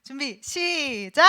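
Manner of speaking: loud, drawn-out count-in; group starting cue. Real, not acted. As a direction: call the group in, stretching the cue. Cues group to read together.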